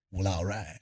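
resigned, chuckling all right; laughing shrug. Retold or imitated. Locked outside the building, chuckling resignedly. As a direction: laugh it off, accepting defeat.

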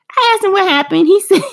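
high-pitched, laughing through the words; amused laughing. Real, not acted. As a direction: tell it while breaking into a laugh. Amused retelling of son's remark.

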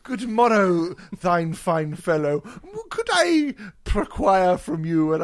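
lightly hammed olde English; mock medieval gentleman; hammy stage actor. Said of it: "acting a reenactor".

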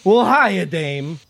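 a touch of a shaky, sheepish hello; a hint of a blubbering man greeting her; lightly voiced Billy. GM voicing Billy greeting Dame Delia after crying, lightly shaky. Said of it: "he looks at you and he goes".

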